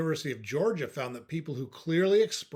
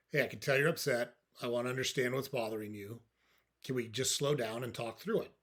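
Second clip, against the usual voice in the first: softer, de-escalating demo voice; real calm; 3 dB quieter than usual. Shown as a demonstration. Talking down someone who is upset, real calm. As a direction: keep it level and calm, easing softer. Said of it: "Just like that, real calm".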